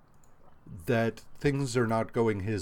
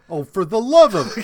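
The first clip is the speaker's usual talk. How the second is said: exasperated laugh; 8 semitones higher, 9 dB louder than usual. Retold or imitated. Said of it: "Ultron's like".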